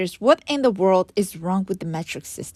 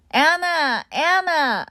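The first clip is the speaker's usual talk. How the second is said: desperate scream; 9 semitones higher, slower than usual. Retold or imitated. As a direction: cry out her name in panic. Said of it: "I screamed in despair".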